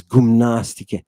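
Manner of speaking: "gymnastike" opening on a short "gum"; short upsilon. Shown as a demonstration. Teacher contrasting with psyche, short first vowel in "gymnastike". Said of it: "The vowels have different lengths".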